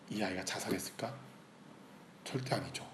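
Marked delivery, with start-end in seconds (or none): 0.1-1.1 soft, hushed question in God's retold voice; God's quiet question. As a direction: ask it gently, leaving room for the answer. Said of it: "하나님이 저한테 그렇게 말씀해 주셨어요". (나직하게 묻는 하나님 음성)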